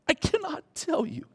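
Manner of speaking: hushed whisper of confession. Real, not acted. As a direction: drop to an earnest whisper. Repeats line, then whispers it.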